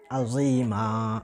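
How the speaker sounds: अजीमा said slowly ending on a long open a, no n; correct pronunciation. Shown as a demonstration. Teacher shows pausing on the verse end, अजीमा with long final a. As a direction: stretch the final vowel of अजीमा. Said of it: "अलिफ पढ़ा जाएगा".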